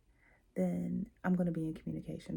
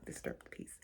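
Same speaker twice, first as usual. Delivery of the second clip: shrinking, trailing off; 3 semitones lower, 10 dB quieter, faster than usual. Shown as a demonstration. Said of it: "from confident and sure to I'm annoyed".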